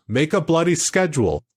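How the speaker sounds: high-pitched attempt at imitating a psychologist; Jordan Peterson impression. Quoting the psychologist's favourite advice to a co-host, in a high-pitched imitation. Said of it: "I can't do my Canadian accent on Jordan".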